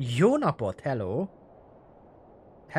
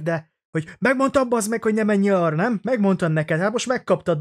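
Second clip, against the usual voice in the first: higher, half-hearted mock yell at the kid; retold angry dad yelling; 6 semitones higher, 4 dB louder than usual. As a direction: imitate a dad scolding his fallen child. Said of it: "apuka az így kiabált neki".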